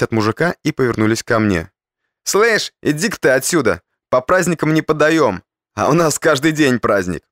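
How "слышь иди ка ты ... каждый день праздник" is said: frat bro. Acted. Thugs brush off beggar.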